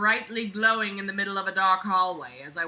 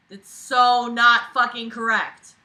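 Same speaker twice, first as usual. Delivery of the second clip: indignant correction; 3 semitones higher, 9 dB louder, slower than usual. Real, not acted. Correcting the punctuation.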